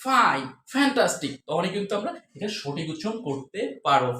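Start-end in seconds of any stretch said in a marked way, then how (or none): 0.1-1.3 slow "ফাইন, ফ্যান্টাস্টিক" with air on each f; airy F. Shown as a demonstration. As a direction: draw out "ফাইন, ফ্যান্টাস্টিক" for learners. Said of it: "যদি বাতাসটা চলে আসে".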